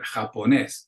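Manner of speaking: Japonés stressed on the final NÉS; ja-po-NÉS, last syllable carrying it. Shown as a demonstration. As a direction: put the accent on the é of Japonés. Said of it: "requires an accent on that E".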